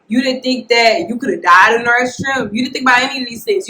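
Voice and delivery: shouted scolding at the patient. Retold or imitated. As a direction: yell it like a frustrated nurse.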